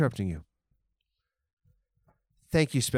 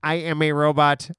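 robot voice. Pretend. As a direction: state it like a stiff machine. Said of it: "it didn't need it".

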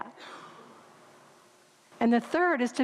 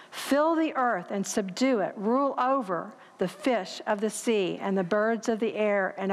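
scripture reading. Acted. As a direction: read the verses with weight, slowing on key words. Reads scripture aloud.

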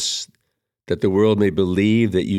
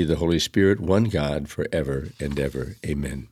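measured, solemn opening prayer; liturgical prayer. Acted. Priest leading the congregation in prayer, solemn prayer voice. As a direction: pray it reverently for the congregation.

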